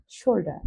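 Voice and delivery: শোল্ডার with the final R left silent; British pronunciation. Shown as a demonstration. Teacher repeating the British form for learners, শোল্ডার without its R. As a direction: end শোল্ডার on an open "da". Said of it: "ব্রিটিশরা উচ্চারণ করে".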